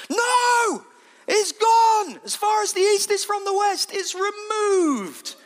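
high, exultant preaching shout; triumphant loud rebuttal, last word stretched; emphatic shout. Acted. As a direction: proclaim it at full force.

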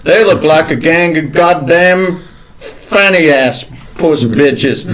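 lightly voiced old Southern gentleman, gruff; a hint of a cranky Southern colonel scolding; mild drawling Southern old-timer. S1 holds a Southern gentleman character.

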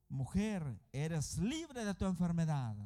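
loud, slow declaration of healing; authoritative proclamation. Acted. Jesus declaring a woman free of her illness, loud proclamation. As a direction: proclaim it with force, drawing out the words. Jesús declara sana a la mujer.

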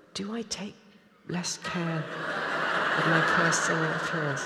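a disbelieving half-laugh at the question; incredulous inner thought. Retold or imitated. Recalling her unwashed, ragged self facing the form, amused disbelief. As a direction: ask it as if the answer is painfully obvious, laughing. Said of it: "And I remember thinking".

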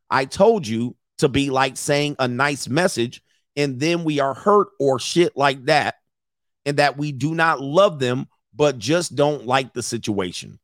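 slow, spaced-out reading of a message; deliberate read-aloud. A narrator's reading. Commentator reads leaked chat to viewers, deliberate read-aloud. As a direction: read it out slowly, word by word.

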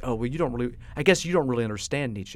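condescending. Retold or imitated. Voicing condescending bar patron.

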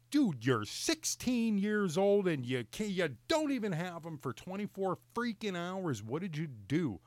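exasperated dad scolding, high and drawn out at the start; retold losing it. Dad retells confronting his son over broken glasses, losing it. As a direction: lay into the kid in disbelief, slowing on the key words. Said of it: "I, I freaking lost it".

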